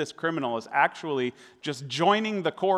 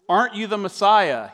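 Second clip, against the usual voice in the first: higher, louder jeering question; mocking insult; 6 semitones higher, 7 dB louder than usual. Criminal on the cross taunting Jesus, jeering. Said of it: "hurled insults at him".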